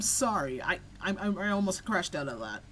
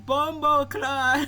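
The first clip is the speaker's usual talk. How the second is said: slow, louder laughing mock shout; imitating shout; 5 semitones higher, 5 dB louder, much slower than usual. Soccer players after a kick, mock shouted slowly with a laugh. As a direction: yell it like the soccer crowd, half laughing. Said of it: "they say in unison".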